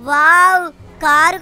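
loud thrilled outburst at the speed; loud amazed wow. Acted.

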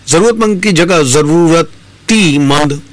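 जरूरतीमंद with an added i, slow; wrong vs right demo. Shown as a demonstration. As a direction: slowly set जरूरतमंद against the wrong जरूरतीमंद. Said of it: "बोलना पूर्ण रूप से गलत".

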